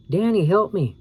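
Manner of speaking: high, loud panicked plea; hysterical scream. A narrator's reading. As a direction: scream for help, frantic. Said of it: "Karen screamed hysterically".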